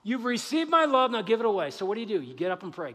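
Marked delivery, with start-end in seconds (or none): 0.0-1.7 God commanding. Acted. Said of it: "And God's saying".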